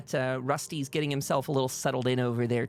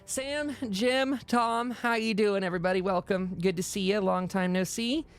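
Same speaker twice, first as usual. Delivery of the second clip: higher-pitched character voice; lifted, welcoming townswoman voice; Hell's Bells, welcoming; 6 semitones higher than usual. Acted. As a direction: greet returning friends in a raised voice. Game master plays Hell's Bells.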